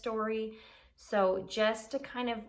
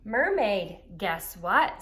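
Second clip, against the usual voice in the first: Narwhal calling; 8 dB louder, much slower than usual. A narrator's reading. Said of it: "said Narwhal".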